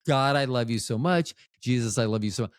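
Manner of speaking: mildly sarcastic declaration of love. Shown as a demonstration. Speaker to God, praising instead of cursing, lightly sarcastic. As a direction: say it sweetly but with a sarcastic edge. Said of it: "I sound very sarcastic".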